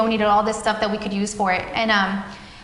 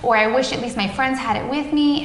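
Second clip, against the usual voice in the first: retold kid's frustrated outburst, pitched up; frustrated child; 3 semitones higher than usual. Mother retelling her son's complaint, mildly frustrated and pitched up. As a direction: voice the son's upset, a mild imitation. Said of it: "he started getting really frustrated".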